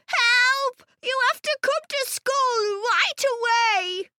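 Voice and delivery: put-on high-pitched boy calling for help; high, frantic storybook child; urgent plea. A narrator's reading. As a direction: cry out in panic down the phone. Ben phones his mother for help.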